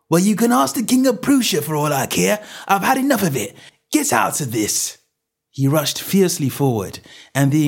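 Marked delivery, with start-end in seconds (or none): 0.1-5.0 angry shout. Acted. Salesman shouting at the man.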